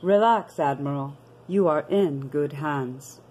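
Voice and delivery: a hint of a calm alien host, welcoming; radio voice from the domain. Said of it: "The message is".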